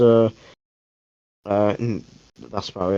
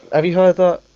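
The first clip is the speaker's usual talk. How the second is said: ordinary talk, nothing marked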